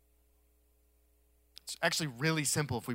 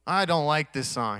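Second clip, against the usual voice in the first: complaining student; 2 semitones higher, 5 dB louder, slower than usual. Retold or imitated. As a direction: drag out a pupil's complaint to the teacher. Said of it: "we used to say".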